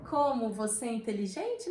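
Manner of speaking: sarcastic mock admiration; demonstrated irony through exaggerated intonation; ironic praise. Shown as a demonstration. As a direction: praise them as if meaning the opposite. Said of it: "a entonação vai dizer pra gente que é uma ironia".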